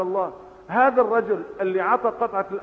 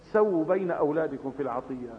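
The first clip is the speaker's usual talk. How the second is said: a touch softer, kindly counsel on سووا; gently advising; 4 semitones lower, 4 dB quieter than usual. Retold or imitated. Preacher voicing the Prophet's kind advice to fathers, gently. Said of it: "ناصحا بلطف".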